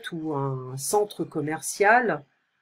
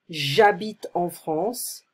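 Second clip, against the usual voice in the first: slow model reading; much slower than usual. Shown as a demonstration. Teacher reads model dialogue slowly.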